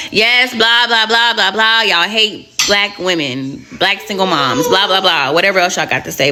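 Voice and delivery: dismissive blah-blah. Real, not acted. Waves off viewers' expected criticism.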